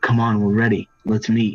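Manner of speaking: hushed whisper in a character voice. Game narrator voicing a character who whispers to a player, Zorlin whispering. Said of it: "He whispers to you. He's like".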